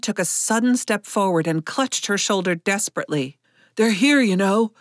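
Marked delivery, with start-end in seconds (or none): 3.8-4.7 lightly voiced urgent croak. A narrator's reading. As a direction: croak a warning to her, understated. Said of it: "he croaked at her".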